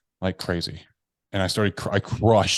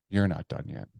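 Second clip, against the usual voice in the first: stern inner voice; 4 dB quieter than usual. Retold or imitated. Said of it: "that voice came back in".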